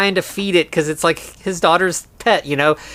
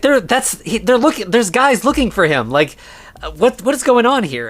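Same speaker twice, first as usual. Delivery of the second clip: higher-pitched, stumbling over the words; mock panic, pitch raised; imitated flustered alarm; 8 semitones higher than usual. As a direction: act out someone thrown and wanting answers. Retold John panicking, demanding explanation.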